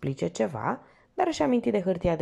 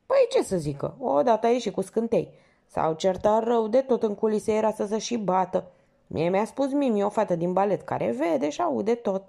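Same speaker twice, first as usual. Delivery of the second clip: lightly voiced chatty doorman, raised pitch; a hint of the nosy old porter spilling gossip; gossipy porter; 5 semitones higher than usual. Porter confiding backstage gossip to the lieutenant, chatty.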